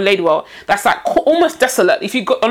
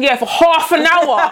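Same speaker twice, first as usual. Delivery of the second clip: laughing; 3 semitones higher, slower than usual. Real, not acted. Laughing aside.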